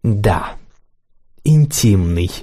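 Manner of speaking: lightly creaky critic; a hint of a creaky, sly critic. A narrator's reading. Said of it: "скрипучим голосом".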